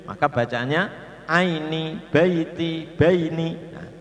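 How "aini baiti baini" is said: "aini, baiti, baini" higher, short ai glides; bacaan pendek. Shown as a demonstration. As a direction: model each word with a clear i. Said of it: "dibaca pendek". ("aini, baiti, baini" dengan ai pendek)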